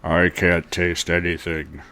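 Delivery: low, slow newly deep voice; deep pitch shifted. Pretend. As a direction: drop the voice low and drag it. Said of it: "cool voice".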